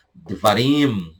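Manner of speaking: Devarim drawn out slowly; slow, clear Devarim for learners; slow teaching pronunciation. Shown as a demonstration. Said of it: "Fala mais devagar pra você poder pegar a pronúncia".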